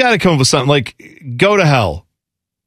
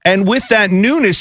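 crypto bro; 4 semitones higher than usual. Retold or imitated. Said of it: "this sounds like every crypto bro".

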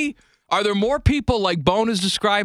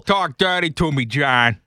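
mock Boston accent; 4 semitones lower than usual. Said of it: "Rachel Dratch and Jimmy Fallon".

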